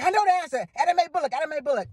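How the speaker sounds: high, loud eager blurt of the answer; bursting to answer, can't hold it in; excited blurting. Retold or imitated. Listener at home blurting the quiz answer, eager and loud.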